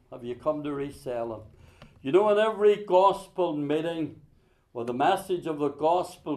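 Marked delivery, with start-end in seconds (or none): 0.1-1.4 softer, lower repeat; a hushed, searching echo of the question; quiet echo. Shown as a demonstration. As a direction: let it sink in, softly.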